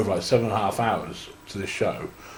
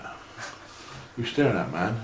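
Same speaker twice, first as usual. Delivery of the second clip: slow, breathy near-whisper, leaning in to intimidate; menacing whisper; 5 dB quieter, slower than usual. Retold or imitated. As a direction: drop to a slow, threatening hush. Mock-confronting a nervous rookie.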